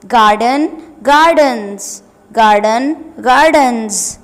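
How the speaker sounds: loud, slow word-by-word reading; classroom drill. Shown as a demonstration. Teacher drilling plurals for pupils, loud and clear. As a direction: drill each singular and plural form for the class. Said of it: "Let's fill the table".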